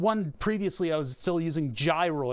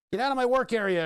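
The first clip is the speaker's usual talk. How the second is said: mock shout; 7 semitones higher, 4 dB louder, faster than usual. Scolding something in workspace.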